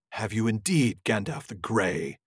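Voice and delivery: a touch of a haughty wizard, slowed down; lightly voiced Saruman. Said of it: "a Saruman voice here".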